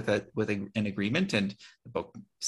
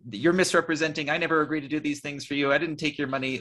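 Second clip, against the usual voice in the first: higher-pitched mock indignant protest; retold screaming; 6 semitones higher than usual. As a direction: imitate an outraged denial, only mildly heated. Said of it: "he was, like, screaming".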